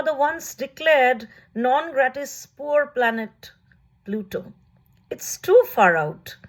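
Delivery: measured, lifted poetry-reading voice, pausing between phrases; poem reading. Acted. Poet reading a prose poem to online friends, lyrical and measured. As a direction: read it like verse for an audience.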